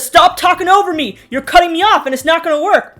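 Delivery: a dad shouting at his partner, imitated; mock angry yell. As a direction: yell like he's losing it at the table. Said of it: "screaming at her".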